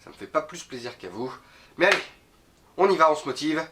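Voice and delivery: sniffly nasal voice from a cold; blocked nose. Real, not acted. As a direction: speak through a blocked nose. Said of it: "je parle du nez, je renifle".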